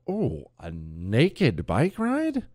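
very slow, drawn-out reaction with swooping pitch; mock intrigue. Host reacting to a listener's naked bike ride story, mock intrigue. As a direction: draw it out slowly, rising at the end.

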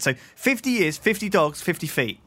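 each "fifty" punched hard; stress on fifty. Shown as a demonstration. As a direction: hit every "fifty" with weight. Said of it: "repeats for emphasis".

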